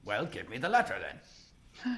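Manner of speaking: slow, lightly voiced impatient troll; troll character. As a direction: draw out the troll's demand. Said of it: "looks at the letter J is holding up in front of him and goes".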